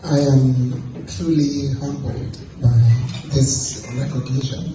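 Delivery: lost voice, hoarse; hoarse, strained voice. Real, not acted. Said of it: "Forgive me, I've lost my voice".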